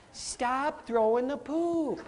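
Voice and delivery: slow, soft and kind; loving, nurturing. Shown as a demonstration. Leader telling poop throwers to stop, slow and gentle. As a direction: gently ask them to stop. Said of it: "in a loving and nurturing way".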